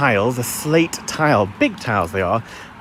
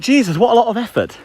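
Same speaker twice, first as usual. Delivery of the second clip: exasperated thought; 11 semitones higher than usual. Retold or imitated. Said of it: "I thought".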